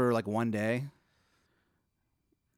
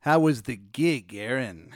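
genie; 4 dB louder, slower than usual. Acted. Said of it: "He goes, uh".

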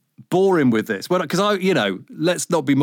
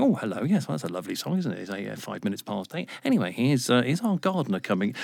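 mock local radio presenter; 2 semitones lower, 6 dB quieter than usual. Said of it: "opening the microphone and going".

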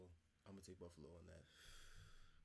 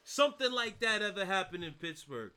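loud rant; 3 dB louder than usual. Real, not acted. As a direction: rant at the team as if the mic were across the room. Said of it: "We can hear you".

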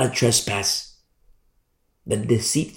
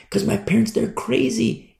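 put-on whiny teen; 9 semitones higher than usual. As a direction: drag out "crazy" like a fed-up kid. Teenager quote.

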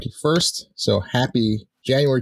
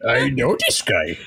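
lightly voiced Kermit frog; plain-ish Kermit impression. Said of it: "he's the Kermit voice".

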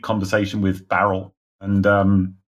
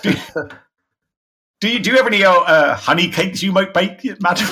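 higher, hesitant trader voice; timid trader voice; 9 semitones higher, 3 dB louder than usual. Acted. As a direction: ask nervously, stumbling. GM voicing trader character.

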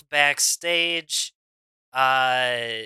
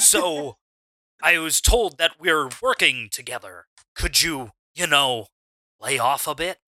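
lame wrestler impression, broken into halting phrases; lightly voiced wrestling star asking a favor; John Cena. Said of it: "lame attempt at being John Cena".

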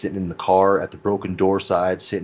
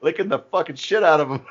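imitating Bubbles; 11 semitones higher, 4 dB louder than usual. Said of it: "Bubbles like".

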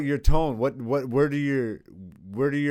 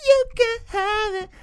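Red Bull ad voice. Retold or imitated. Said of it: "I can also do, like, Red Bull".

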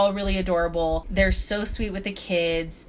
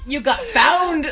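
teasing laugh; 9 semitones higher, 6 dB louder, slower than usual. Real, not acted. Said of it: "teasing friend".

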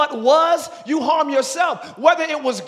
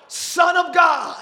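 demon cries out; 3 semitones higher, much slower than usual. Acted. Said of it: "cried out".

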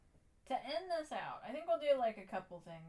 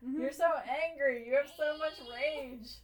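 slow, louder mock scolding; teasing the cat; 6 semitones higher, 9 dB louder than usual. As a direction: tease the little rager slowly. Addressing angry cat.

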